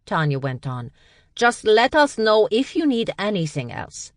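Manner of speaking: chirpy and helpful; bright young woman. A narrator's reading. Tonya greeting Berg, high cheerful voice.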